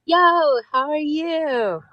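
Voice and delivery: mock mystical. Psychic guest greets mysteriously.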